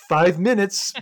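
high, loud parroting; mock-excited high voice; eager echo. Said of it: "he does the same thing back".

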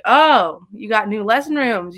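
loud, drawn "oh" of interest; retold eager interest. Job seeker retelling her pitch to the school, eager interest. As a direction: play back a keen reaction.

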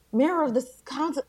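MAYOR in an American accent, R fully sounded. Shown as a demonstration. Wife showing her own way before correction, American accent on MAYOR. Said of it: "Mayor is American English".

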